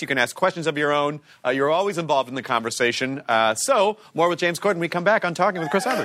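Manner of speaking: brisk presenter's throw to break; show host outro. Real, not acted. Host telling viewers what's coming back, presenter delivery. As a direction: sign off to the audience like a TV host.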